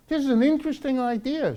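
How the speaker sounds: high, airy mock of the journalist's enthusiasm. Lecturer mimics a friendly magazine editor, high mock gush. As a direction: lilt it up like a gushing fan of the idea. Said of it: "she says".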